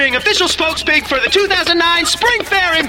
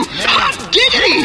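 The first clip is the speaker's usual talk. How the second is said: excited shout; 3 semitones lower than usual. Acted. Excited ad exclamation.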